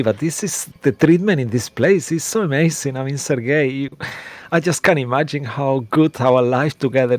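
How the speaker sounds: giddy bride-to-be gushing to her fiancé; lovestruck bride. Acted. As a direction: gush about her fiancé. NPC Tatiana gushing in character.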